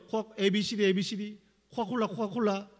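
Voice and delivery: fast repetitive mock prayer chant; imitated tongues prayer. Retreat kids all praying at once, imitated tongues. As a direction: run the syllables together like fervent tongues. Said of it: "이렇게 막 기도하기 시작하니까".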